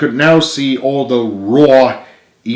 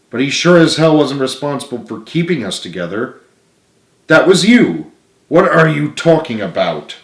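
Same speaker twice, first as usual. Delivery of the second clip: Richard, higher and louder, full of praise; admiring friend; 4 semitones higher, 3 dB louder than usual. Acted. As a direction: build him up with sincere praise.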